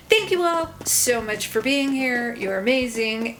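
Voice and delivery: echoing room sound. Real, not acted. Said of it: "I apologize for the echoing".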